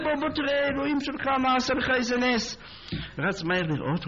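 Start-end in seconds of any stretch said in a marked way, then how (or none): 0.0-2.6 calling out in wonder at the miracle; excited calling. Retold or imitated. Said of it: "התחיל לצעוק".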